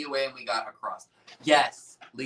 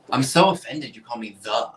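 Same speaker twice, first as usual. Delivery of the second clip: louder, playful indignation; mock offence; 6 dB louder than usual. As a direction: pretend to be deeply offended. Mock offence at being teased.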